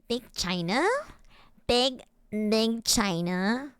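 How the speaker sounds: put-on tentative Valley Girl question, rising on "China". Shown as a demonstration. Streamer testing Big China for chat, Valley Girl voice. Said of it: "How would Big China sound with a Valley Girl?".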